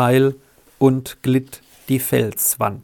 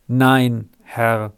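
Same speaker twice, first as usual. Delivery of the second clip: calm. Acted. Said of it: "sagte er ruhig".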